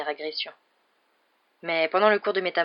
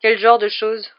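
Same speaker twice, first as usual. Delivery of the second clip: coughing; 4 semitones higher, 10 dB louder, slower than usual. A narrator's reading. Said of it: "en toussant".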